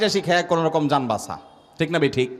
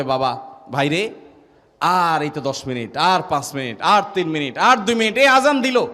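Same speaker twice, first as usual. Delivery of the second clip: counting down to azan; 2 semitones lower than usual. Retold or imitated. Grandfather counting down minutes to iftar.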